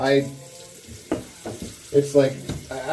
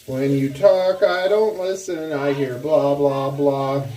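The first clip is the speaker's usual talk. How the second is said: mock dismissive; 4 dB louder, slower than usual. Teasing wife to be quiet.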